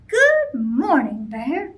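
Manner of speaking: bright, drawn-out good morning; cheerful greeting. Acted. Smiley rabbit greeting grumpy Bear, cheerful. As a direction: greet him with a big smile in your voice.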